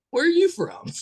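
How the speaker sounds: high-pitched imitation breaking into a laugh; amused mock question. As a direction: imitate baffled strangers, laughing at the end. Quoting puzzled listeners, amused.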